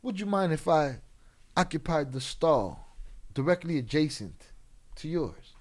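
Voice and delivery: overly polite, prim mock gentleman; mock posh polite. Mocking a too-polite man in a bathroom, prim and proper. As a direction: ham up a fussy proper gentleman. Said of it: "Don't that sound way better than".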